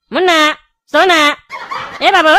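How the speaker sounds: coaxing wake-up calls; calling out. Acted. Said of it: "इतना जोर जोर से बोल रहा है".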